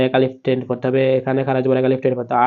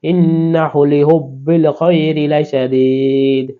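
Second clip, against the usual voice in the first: slow, raised Quranic chant; slow recitation; 2 semitones higher, much slower than usual. Shown as a demonstration. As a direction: lift the verse and draw every vowel out. Reciting the verse.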